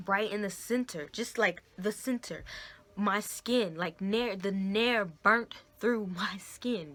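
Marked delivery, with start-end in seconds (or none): 4.4-6.9 whispered laugh. Real, not acted. Shocked reveal with laugh.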